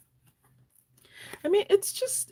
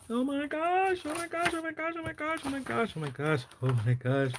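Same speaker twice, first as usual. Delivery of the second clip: much higher, softer breathless repeats; giddy excitement; 12 semitones higher, 4 dB quieter, faster than usual. Real, not acted. Host gushes to viewers over the planner, giddy. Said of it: "I'm excited".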